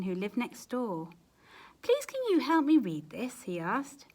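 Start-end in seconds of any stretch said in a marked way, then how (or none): 1.8-3.4 pleading wolf. Acted.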